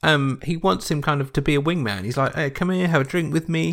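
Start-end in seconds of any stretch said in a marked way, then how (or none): 2.3-3.7 high-pitched, friendly mock coaxing; imitated friendly invitation. Dell wants Rodney as a wingman, imitated eager friendliness. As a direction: lightly act out a keen invitation. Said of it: "He's been, like, really, really nice".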